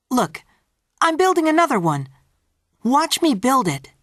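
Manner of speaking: put-on high, hurried child voice; coaxing little boy. A narrator's reading. Peter to little brother about another tower, eager coaxing. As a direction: distract him eagerly, pitched well up.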